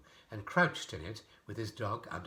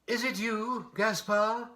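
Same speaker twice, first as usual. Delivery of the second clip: high, loud call into the dark night; shouting out the door; 13 semitones higher, 7 dB louder, slower than usual. A narrator's reading. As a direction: yell it into the empty night. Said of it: "with all the strength of his lungs".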